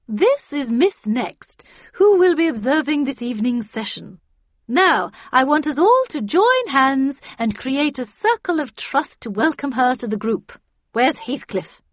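loud, high, swooping group-leader lady; overbearing hostess of a counselling circle; Miss Havisham running session. A narrator's reading. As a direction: gush at the group in a commanding high voice. Voices Miss Havisham leading session.

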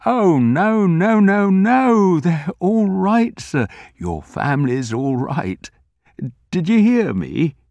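put-on high, loud old man reassuring; anxious. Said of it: "he asked anxiously".

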